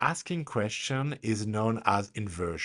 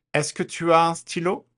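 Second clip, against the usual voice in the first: est-ce que with stylo rising high and loud. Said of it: "repeat after me".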